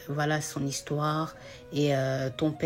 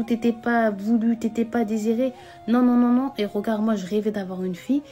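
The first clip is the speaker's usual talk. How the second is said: higher and louder, scolding insistence; mother angrily reassuring her daughter she is wanted; angry mother; 5 semitones higher, 6 dB louder than usual. Acted. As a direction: scold her daughter hard, refusing her words. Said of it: "elle s'énervait, elle lui a dit".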